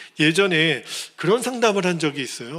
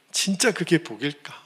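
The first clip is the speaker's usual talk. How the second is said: ordinary delivery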